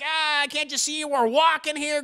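high, loud annoyed worker; hammed-up complaint at a clumsy passer-by; mock irritation. Worker snaps at man bumping him.

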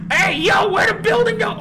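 shouted high in panic; scared horror game streamer. Real, not acted. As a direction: yell out, lost and scared. Lost while chased.

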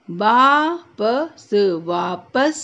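वापस with a long rising आ; slow वापस; stretched aa. Shown as a demonstration. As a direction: drag out वापस. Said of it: "खींच के बोलना है".

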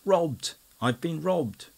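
high loud strangled cry of loss; hoarse strangled cry. A narrator's reading. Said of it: "cried out in a hoarse and strangled voice".

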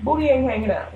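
high-pitched imitation of nagging folks; mock scolding elders. Folks telling her to pull her pants up, high mock scolding. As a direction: squeak it out like scolding relatives. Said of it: "folks always tell me".

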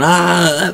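high mock yell; short acted cry of alarm, not full force; imitated yell. Dale fighting off the zombie, imitated yell. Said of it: "He's yelling".

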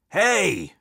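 theatrical stadium "hey"; shout. A narrator's reading. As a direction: holler from the bleachers. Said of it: "shouted a fan in the bleachers".

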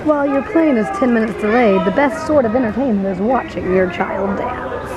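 playful, lightly put-on announcer voice. Mom entertaining during a plane delay, mock announcer. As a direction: announce it as if to a crowd. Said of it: "in the mood to talk like an announcer".

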